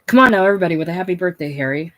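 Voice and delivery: loud, rousing start to the birthday toast; leading the cheer. Acted. Hickey leading the gang in a birthday toast, rousing. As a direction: pump up the crowd for the song. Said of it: "With his voice leading".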